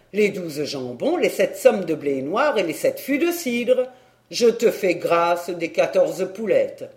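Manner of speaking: put-on a touch of a haggling old uncle; lightly voiced blustery uncle. Uncle listing his price for Vivette, mildly blustery. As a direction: ramble and bargain with light bluster.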